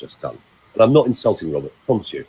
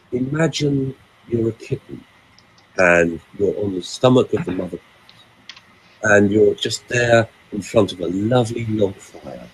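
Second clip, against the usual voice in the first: real, relaxing version. Retold or imitated. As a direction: lull a loved one gently, taking your time. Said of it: "I've just given you the real version".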